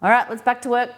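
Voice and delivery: rally yourself after lunch; cheery get-back-to-it call; back-to-work call. Retold or imitated. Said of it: "you go".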